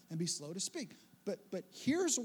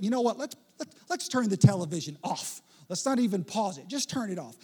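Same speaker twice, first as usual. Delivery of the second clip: mildly loud, insistent plea; urgent demand for attention; 6 dB louder than usual. Acted. Preacher voicing James demanding undivided attention, insistent. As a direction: press the listener to drop everything.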